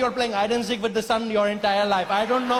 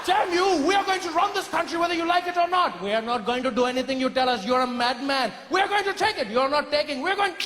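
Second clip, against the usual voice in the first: mock angry rant; 5 semitones higher than usual. Acted political rant.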